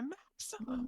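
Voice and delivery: high, slow, held-back scream; imitated scream. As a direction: stretch it out in a small high scream. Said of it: "He, like, screams it".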